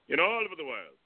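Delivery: put-on high Celtic Australian vampire accent. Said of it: "a Celtic Australian vampire voice".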